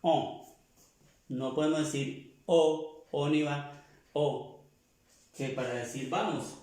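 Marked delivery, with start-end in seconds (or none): 0.0-0.4 On nasal, with a held-nose sound; On, a nasal o without an n. Shown as a demonstration. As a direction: say On through the nose. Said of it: "tapáramos un poco la nariz".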